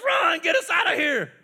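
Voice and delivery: loud high yell; frightened people yelling at Moses. Shown as a demonstration. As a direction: shout it like a panicked crowd. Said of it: "you gotta yell at Moses".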